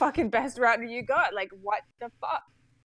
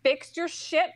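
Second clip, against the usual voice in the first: higher-pitched, irritated ultimatum; retold demand; 6 semitones higher, slower than usual. Customer to internet technician, irritated demand. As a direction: lay down the demand with force. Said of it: "I'm like".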